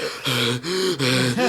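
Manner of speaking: imitated winded breathing; mock panting. Winded trainee being yelled at, exaggerated panting. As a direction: gasp for air like an exhausted runner. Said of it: "trying to catch your fucking breath".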